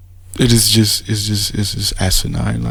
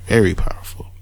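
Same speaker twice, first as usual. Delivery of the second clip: hushed mock awe, softer; sarcastic whisper; 5 dB quieter than usual. Real, not acted. Mocking the rival's line in a sarcastic whisper.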